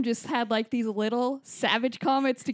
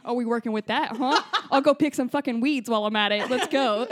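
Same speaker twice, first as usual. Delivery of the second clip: sarcastic; 3 dB louder than usual. Retold or imitated. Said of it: "It's like".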